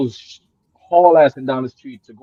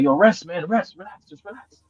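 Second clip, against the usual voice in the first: reassuring; 4 semitones higher than usual. Retold or imitated. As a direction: soothe a panicking child. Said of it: "what the guy kept saying".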